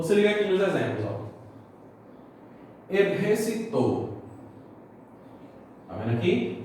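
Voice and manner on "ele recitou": "recitou" stressed on its last syllable, "tou"; stress on final syllable. Shown as a demonstration. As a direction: land "recitou" on a final "tou", Spanish-style. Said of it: "O to é a sílaba tônica".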